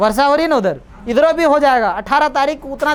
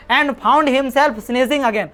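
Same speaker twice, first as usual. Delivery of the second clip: slow, careful English reading; slow reading aloud; much slower than usual. Shown as a demonstration. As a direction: read each word out slowly for the class. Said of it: "reading the text aloud".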